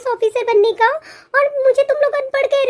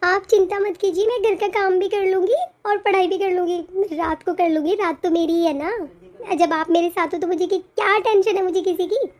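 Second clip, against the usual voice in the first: reassuring; 3 semitones lower, 3 dB quieter than usual. Acted. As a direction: gently set his mind at rest. Wife reassures husband softly.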